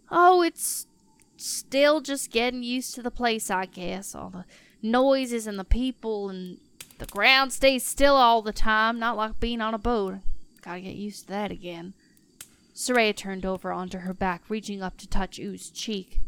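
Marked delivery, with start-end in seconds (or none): 0.1-11.9 lightly voiced half-orc, casual and a little hesitant; a hint of folksy half-orc, trailing away at the end; homesick half-orc sailor. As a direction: play a plain-spoken sea-raised fighter, mildly unsettled.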